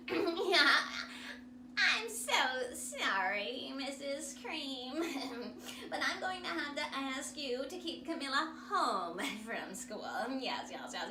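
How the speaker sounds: loud, chuckling apologetic principal; a hint of an awkward principal. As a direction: apologise with nervous laughs. Principal phones the mother.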